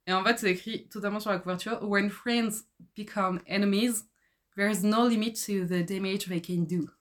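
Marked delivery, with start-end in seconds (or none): 1.8-6.9 put-on slow, clumsy English accent on a book blurb; a French reader's lame put-on English accent; bad English accent. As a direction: read the cover line in a deliberately poor English accent. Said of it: "Je vais dire avec un accent anglais pourri".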